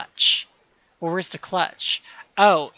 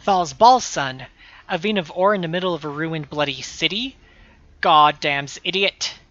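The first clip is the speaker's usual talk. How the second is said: gruff thug; 5 dB louder than usual. Acted. Voicing a gruff thug NPC.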